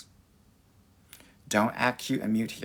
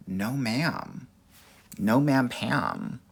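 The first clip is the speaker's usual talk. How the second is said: sassy refusal; much slower than usual. Pretend. Sassy rejection quote.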